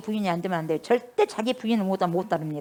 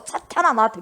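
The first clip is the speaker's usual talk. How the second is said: stunned disbelief; 4 dB louder than usual. Retold or imitated. Peter stunned at rebuke.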